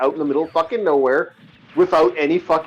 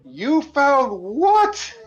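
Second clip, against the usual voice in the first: stern dad; 7 semitones higher, much slower than usual. Retold or imitated. Stern Italian dad reacting to gun.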